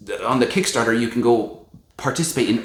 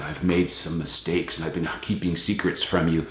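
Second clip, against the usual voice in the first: quiet humbled mea culpa; humble; 6 semitones lower, 6 dB quieter than usual. Retold or imitated. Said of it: "humble, like".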